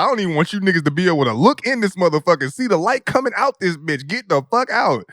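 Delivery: fast mock rant; imitating the mom, rushed and irritated. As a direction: hurry them out like the mom. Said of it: "She was like".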